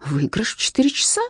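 whispered, confiding the gain. A narrator's reading. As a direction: whisper it like a secret tip. Mother argues for the shortcut.

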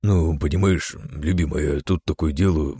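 sheepish, bleating excuse; sheepish husband. Acted. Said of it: "растерянно проблеял мироходец".

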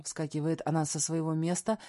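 ordinary delivery, nothing marked

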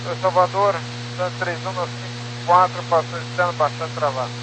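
crackly military radio. Real, not acted. Pilot transmission over radio.

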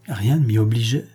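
mild eager outcry; a touch of youthful protest; exclaiming. Acted. Son protesting to his father, mildly exclaiming. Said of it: "s'écria Alexis".

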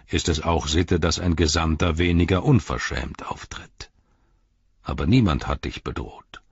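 stern old wizard, lightly voiced; a grave wizard rebuking an envoy; a hint of a stern old wizard; Gandalf's stern voice.

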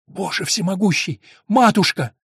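high, loud scream of horror; piercing cry. Acted. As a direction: cry out in terror at the sight. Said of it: "пронзительно вскрикнула". (пронзительный крик ужаса)

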